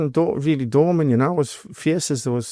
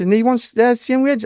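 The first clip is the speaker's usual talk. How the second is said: high, incredulous retold question; indignant disbelief; 11 semitones higher, 3 dB louder than usual. Doorman retelling his wage dispute with Viv, indignant. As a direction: question it as if it's outrageous. Retold protest about equal pay.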